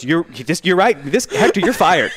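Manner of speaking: hammed-up boss handing out the sack through laughs; mock boss firing. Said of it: "He goes".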